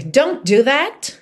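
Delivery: slow, firm warning; mother telling off her son, stern. Shown as a demonstration. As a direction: scold the child slowly. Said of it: "mas é muito mais comum uma mãe brava dizer".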